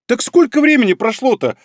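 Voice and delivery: high-pitched indignant protest. A narrator's reading. Мизуки objects to his excuse, indignant. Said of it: "возмутилась она".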